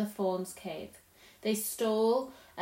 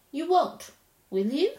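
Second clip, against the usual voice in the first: pleading; 6 semitones higher, 6 dB louder than usual. Acted. Lucy pleading with Tumnus.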